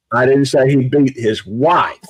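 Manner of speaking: wife stressed, someone else's; wife singled out. Shown as a demonstration. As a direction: land on the word wife. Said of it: "I'm gonna say it several different ways".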